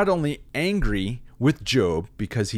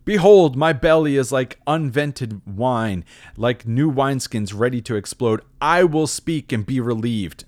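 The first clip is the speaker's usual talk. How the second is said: much louder and higher on Behold, then still loud and puffed up; bursting blowhard; 3 semitones higher, 5 dB louder than usual. Acted. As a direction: declaim like a windbag about to burst. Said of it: "This is why he's a blowhard".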